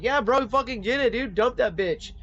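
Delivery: high, loud bro cheering his buddy on; hyped bro. Retold or imitated. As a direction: hype him up like a gym bro. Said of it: "he's probably like".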